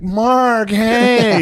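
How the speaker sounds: light up like your favourite just walked in; gushing greeting. Retold or imitated. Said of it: "he's like".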